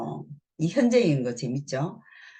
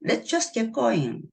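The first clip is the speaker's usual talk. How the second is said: slow demo; 6 semitones higher, much slower than usual. Shown as a demonstration. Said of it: "이 표현도 굉장히 많이 씁니다".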